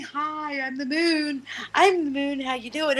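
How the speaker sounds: a lightly voiced chirpy moon; voicing the moon, high. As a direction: wave hello as a distant moon. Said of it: "back here saying".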